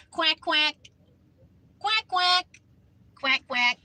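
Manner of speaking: high, loud quacking; playful duck imitation. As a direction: quack back at the ducks. Imitates ducks, calling to them.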